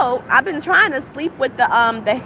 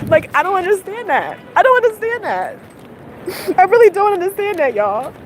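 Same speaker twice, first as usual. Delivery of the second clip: upset; 5 semitones higher than usual. Real, not acted. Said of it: "I'm so upset right now".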